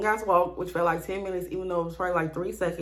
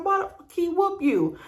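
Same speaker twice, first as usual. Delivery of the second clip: dad outraged; 9 semitones higher than usual. Retold or imitated. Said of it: "He started screaming".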